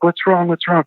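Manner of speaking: retold alarmed dad. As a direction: lightly imitate a worried parent rushing in. Alarmed dad rushing in to ask.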